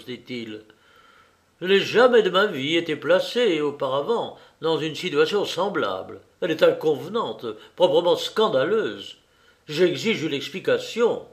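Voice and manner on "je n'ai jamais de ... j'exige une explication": affronted, emphatic protest; mildly angry, scandalised client; indignant anger. Acted. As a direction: demand it with huffy, contained outrage. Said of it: "Notre visiteur s'enflait et soufflait de colère".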